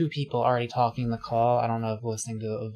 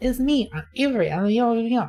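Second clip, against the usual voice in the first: put-on super cutesy voice, higher and louder; 12 semitones higher, 5 dB louder than usual. Recalling how another caller first joined the call: imitating Avery's super cutesy voice. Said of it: "talking in, like, a super cutesy voice".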